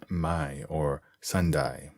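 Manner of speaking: "my" and "Sundai" for may and Sunday, A said like "eye"; Australian A as I. Shown as a demonstration. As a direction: turn the A in "Sundai" into a long I. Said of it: "A sounds are pronounced I".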